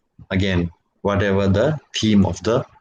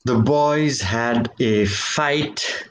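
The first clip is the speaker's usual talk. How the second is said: slow reading aloud; much slower than usual. Shown as a demonstration. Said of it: "if the sentence is".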